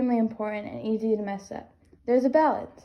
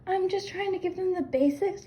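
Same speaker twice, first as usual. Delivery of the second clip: mocking mimicry; 8 semitones higher, 3 dB quieter than usual. The speaker mocking the host's excuse.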